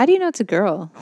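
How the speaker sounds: real accidental croak in the question; frog in throat. Real, not acted. Co-host questions host's assumption, voice croaking. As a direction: ask it with a catch in the throat. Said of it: "There's a frog in your throat".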